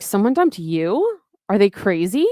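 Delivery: incredulous questions, rising sharply at the ends; acted disbelief. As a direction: play mock astonishment at the news. Acting out Ambrose's disbelief in quote.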